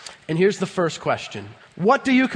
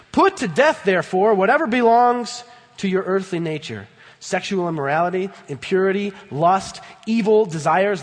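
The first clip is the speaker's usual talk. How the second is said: forceful scripture reading. Acted.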